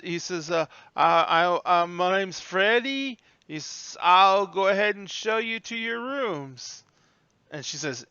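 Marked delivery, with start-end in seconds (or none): 0.5-6.8 higher, drawn-out introduction; halting, high old bellhop. Acted. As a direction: introduce yourself slowly, pitched up.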